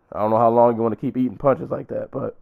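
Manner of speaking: hoarse voice giving out. Real, not acted. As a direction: talk through a failing voice. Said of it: "I'm losing my voice in this podcast".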